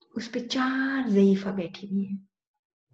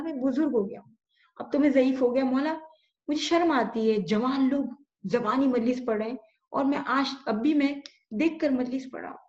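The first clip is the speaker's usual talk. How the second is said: put-on higher, pleading lament of an old man; tearful plea; 4 semitones higher than usual. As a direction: beg with a catch of tears, voice rising. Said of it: "امام حسین سے رو کے توسل کیا اور کہا". (بلند ہوتی ہوئی روتی ہوئی فریاد)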